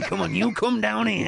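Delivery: high-pitched, hammed-up angry challenge; mock anger. Guest mimicking the host's indignation, mock-angry and high. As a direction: play at being angry, pitched well up. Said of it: "It was the anger in his".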